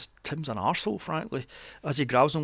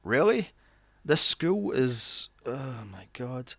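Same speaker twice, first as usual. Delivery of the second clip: exasperated disbelief; 3 semitones lower, slower than usual. Retold or imitated. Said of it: "I'm like".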